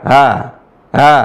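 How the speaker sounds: ha softened halfway between a glottal a and h; in-between ha sound; between hamzah and ha. Shown as a demonstration. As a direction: breathe a half-hamza ha. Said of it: "tapi tengah-tengah".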